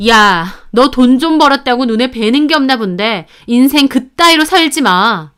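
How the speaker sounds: fed-up anger. Acted. Daughter-in-law telling off her richer sister-in-law, mildly angry. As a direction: tell her off, somewhat heated. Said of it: "저 열받아서 형님년한테 그랬죠".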